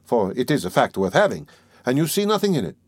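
lively, lightly acted wily examining lawyer; lightly voiced Porfiry, needling. Examining lawyer goading his suspect, animated and needling. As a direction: argue with teasing animation, pitch rising on key words.

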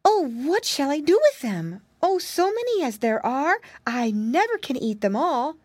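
high-pitched storybook wail; crying out in dismay. A narrator's reading. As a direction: fret aloud like a little girl at a loss. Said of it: "he heard someone crying out".

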